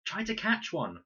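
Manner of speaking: high, loud call. A narrator's reading. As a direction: call it out from the bank. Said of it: "called Con".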